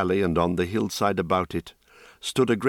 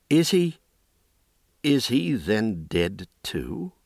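frightened; 4 semitones higher, slower than usual. Acted. Terrified boy after seeing dead.

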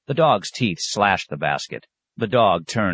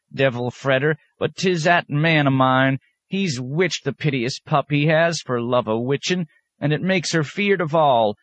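put-on high old country woman rambling excuses; old woman excusing her dog to the abbot, high and wheedling; wheedling old peasant woman; 8 semitones higher than usual. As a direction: plead for the dog in a high backwoods voice.

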